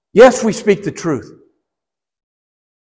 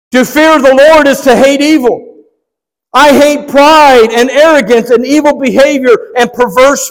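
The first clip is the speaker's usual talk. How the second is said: raised, emphatic scripture declamation; preaching scripture; 7 semitones higher, 5 dB louder than usual. Real, not acted. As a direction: proclaim the verse to the congregation.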